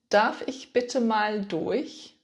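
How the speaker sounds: slow, careful teaching model; slow model phrase. Shown as a demonstration. Teacher models the phrase slowly for beginners. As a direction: spell it out slowly for the learner. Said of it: "In German, you can say".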